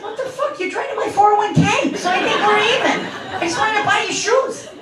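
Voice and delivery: high-pitched, incredulous comeback; exasperated parent's protest; indignant retort. Retold or imitated. Acted comeback to her son.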